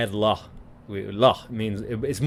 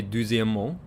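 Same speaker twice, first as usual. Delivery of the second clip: "deuxièmement" the Paris way, ending "mo"; France accent on "deuxièmement"; France French. Shown as a demonstration. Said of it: "in France, you would say".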